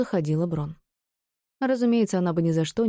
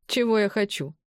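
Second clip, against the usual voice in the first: muttered, pitched up; rising mutter; 4 semitones higher than usual. A narrator's reading. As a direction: mutter it again, more agitated. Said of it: "забормотала она".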